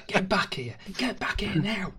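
shouted from across the room, high and loud; calling from far away. Real, not acted. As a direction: yell after someone who walked off. Calling someone who walked off.

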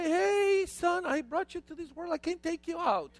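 high-pitched indignant scolding; mock stern father. Father reprimands his young son, mock indignation. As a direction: scold a child in hammed-up outrage.

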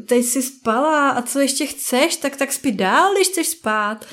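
acted weary parent, voice pushed up; exasperovaný rodič. Exasperated parent talking to baby. (podrážděně, jako unavená máma)

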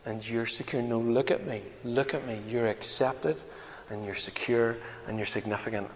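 very soft and gentle, almost hushed; gentle quiet voice. Retold or imitated. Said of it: "goes down very gently and says".

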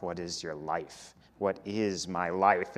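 low, soft, musing mumble; mumbling to oneself. Retold or imitated. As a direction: mutter the question under your breath. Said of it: "mumbling to myself".

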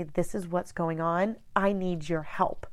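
quiet, steady ask for help; calm request. Shown as a demonstration. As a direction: ask gently and plainly. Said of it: "have a nice, a calm conversation".

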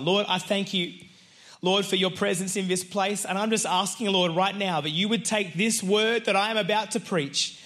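earnest pastor's prayer to open the sermon. Acted. Pastor asking God to bless the word, earnest prayer. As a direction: pray it like opening a service. Pastor prays before preaching.

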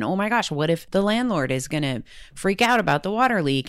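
hammed-up fretting about the landlord; mock panic. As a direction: voice the rising panic of the worry spiral. Voicing her own spiraling worries.

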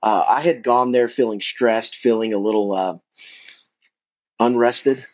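talking with gum in mouth; words around a wad of gum; chewing gum. Real, not acted. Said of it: "if you hear some A S M R stuff".

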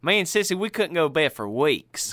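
lightly voiced Southern fella telling a story; a touch of Southern storyteller. Cohost playing a Southern fella recalling a scary movie, light Southern voice. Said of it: "I like to do the Southern fella".

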